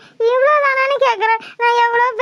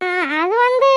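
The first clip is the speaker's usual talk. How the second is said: halting words through tears; tearful stammer to her lover; crying; 3 semitones lower than usual. Acted. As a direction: choke on the words, close to sobbing. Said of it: "எதுக்குடி இப்படி அழுகுற?".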